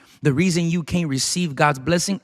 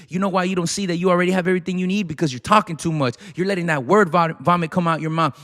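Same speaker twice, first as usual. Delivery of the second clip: ordinary delivery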